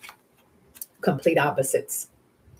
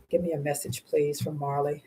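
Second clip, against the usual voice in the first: a soft, hushed second request to the guides; softer repeated plea; 6 dB quieter than usual. Real, not acted.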